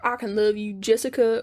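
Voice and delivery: lightly Southern Freddy impression; mock love line in a Southern accent. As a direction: give it a casual Southern twang. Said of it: "I don't know why he's Southern".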